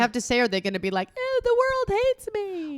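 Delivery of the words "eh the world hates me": high, slow, dragged-out whine; whiny sulky voice. Retold or imitated. Mocking a sulky millennial.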